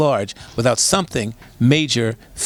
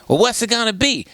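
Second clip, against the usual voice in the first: imitated caller, high-pitched challenging question; caller with attitude; 8 semitones higher than usual. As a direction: demand an answer in a raised sassy voice. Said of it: "she calls up with attitude".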